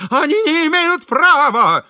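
high, loud, slow protest; indignant protest. A narrator's reading. Host protests the furniture seizure, high and loud. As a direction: cry out against the injustice.

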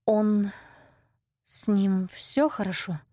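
trembling whisper. A narrator's reading. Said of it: "прошептала я дрожащим голосом".

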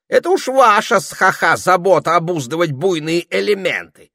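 high, loud huffy parrot voice; indignant parrot. A narrator's reading. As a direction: rant like an offended bird. Parrot rants about snobby unicorns.

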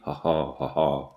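low, soft acted sneering "ha, ha"; hollow mock laughter from a captor. A narrator's reading. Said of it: "Ces ricanements convulsifs". (ricanement sourd et forcé)

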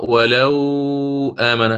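ولو آمن with a lengthened lin vowel, slow; wrong way. Shown as a demonstration. Teacher showing the reading Warsh does not use. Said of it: "ولن يقرأ".

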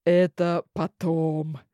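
low, slow, polite priest; courteous and slow, looking down on her. Acted. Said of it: "любезно ответил жрец".

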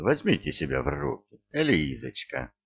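high-pitched, nervous urging. A narrator's reading. Stern tries to settle Eliza after her cry, nervous. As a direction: nervously urge her to pull herself together. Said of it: "нервно сказал Штерн".

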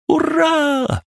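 very high excited shout; joyful cheer. A narrator's reading. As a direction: cheer with delight. Kristina cheers at discharge.

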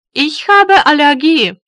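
ordinary talk, nothing marked

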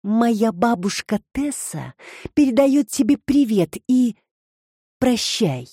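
measured, deliberate farewell with pauses; icy calm. A narrator's reading. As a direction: deliver it coolly, spacing out the last word. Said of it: "с ледяным спокойствием произнесла". (с ледяным спокойствием)

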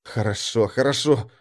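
small, nervous, trembling assent; cowed, hushed compliance; frightened. A narrator's reading. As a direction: give in meekly with a nervous quaver. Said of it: "испуганным голосом ответил я, подпустив нервической дрожи".

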